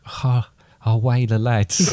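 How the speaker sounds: drawn-out Geordie cheer, slow; Geordie accent. Pretend. Dad cheering West Ham's win over Newcastle, Geordie accent. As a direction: put on your best Geordie. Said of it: "In my best Geordie accent".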